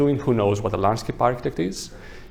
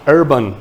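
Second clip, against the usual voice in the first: urban set apart and louder; stress on urban; 2 semitones higher, 6 dB louder than usual. Real, not acted. Lecturer flagging the kind of meadows, stress on urban. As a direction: hit urban harder, after a short pause. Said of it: "I'm emphasizing on the word urban".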